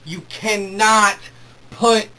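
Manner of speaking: real fan fury, slowed and loud; mad. Real, not acted. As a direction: drag out "You cannot" in anger. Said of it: "I'm sorry if I sound mad".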